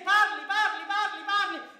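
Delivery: loud, high shouted repeat; retold shouting. Husband pushing the lady to speak, shouting. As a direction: hammer the word at her, yelling. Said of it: "le gridai".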